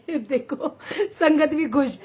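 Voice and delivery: slow, laughing delight. Real, not acted. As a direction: laugh through the words. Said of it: "मैं इतनी खुश".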